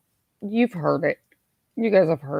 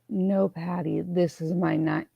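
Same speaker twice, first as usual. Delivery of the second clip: failed sexy operator voice; 3 dB quieter than usual. Shown as a demonstration. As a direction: voice cracks on the first try at a sultry line. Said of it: "damn it, not even with my cold".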